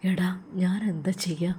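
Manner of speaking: helpless whispered question. Acted. Friend asking what he can do, whispering. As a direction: whisper it, at a loss.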